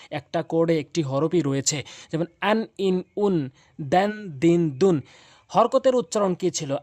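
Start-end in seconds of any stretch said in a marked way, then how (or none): 2.4-5.0 আন, ইন, উন, দেন, দিন, দুন each short; quick short reading. Shown as a demonstration. Teacher drilling tanween, quick short আন, ইন, উন. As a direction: separate brief syllables, আন, ইন, উন, দেন, দিন, দুন. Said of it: "এখানে আমরা দ্রুত পড়ব".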